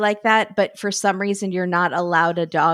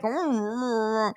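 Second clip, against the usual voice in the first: guinea pig voice; 4 dB quieter, slower than usual. Retold or imitated. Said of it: "But if he was like".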